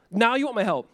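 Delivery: "Now you want my help." said as a dry falling statement; 끝을 내려 "Now you want my help." 단정하듯 비꼬기; flat sarcastic statement. Retold or imitated. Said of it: "God is saying this".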